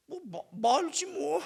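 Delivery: high, careless laughing shrug. Retold or imitated. Careless student shrugging off paralysis, laughing. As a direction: toss it off with a laugh.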